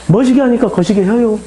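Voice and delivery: lightly acted Jeolla reply; a touch of Jeolla accent; Jeolla dialect. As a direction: answer in homely Jeolla dialect. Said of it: "전라도 말로 제가 번역해서".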